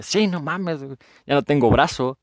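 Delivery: high-pitched, exasperated comic reply; mock complaint. Dead man answering his congratulators without an arm, mock complaint. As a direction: protest as the battered arrival.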